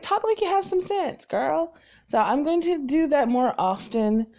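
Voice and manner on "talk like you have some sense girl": a higher, lightly voiced mom scolding her daughter; imitating mom. Mom telling her daughter to talk sensibly, lightly imitated. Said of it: "My mom's like".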